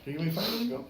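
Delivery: put-on talking to a child. Fireman asking a kid about growing up, friendly. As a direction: lightly imitate chatting up a little kid.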